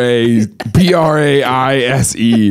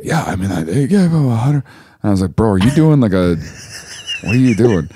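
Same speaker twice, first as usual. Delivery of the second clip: low, croaky mock impression; imitating hoarse voice; 3 semitones lower than usual. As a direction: mimic a rough, croaky voice. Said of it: "Whatever's going on with your voice".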